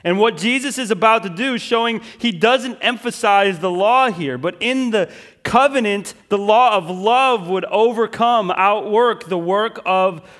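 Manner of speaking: loud, high, driving sermon voice; preaching at full force. Acted. Pastor rousing the congregation, loud and high. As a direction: preach it out with rising fervor.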